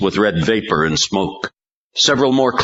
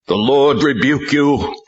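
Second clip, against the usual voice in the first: 1 shouted rebuke; 9 semitones higher than usual. A narrator's reading. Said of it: "Tal shouted".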